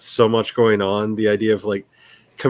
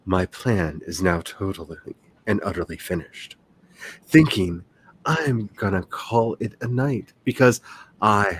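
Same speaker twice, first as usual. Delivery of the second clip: sinister voice; 3 semitones lower than usual. Pretend. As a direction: read it like a scheming supervillain. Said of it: "I wanted to read that in a sinister voice".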